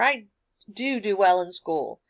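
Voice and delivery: first "do" leaned on; emphatic DO. Acted. Student turning to mom, emphatic stress on DO. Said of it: "looked around and looked at your mom".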